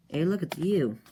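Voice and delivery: high, sing-out taunting hail; mock greeting. Scar guy spots Bloodman in another dimension, high mock greeting. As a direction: pitch it up as a cheeky greeting.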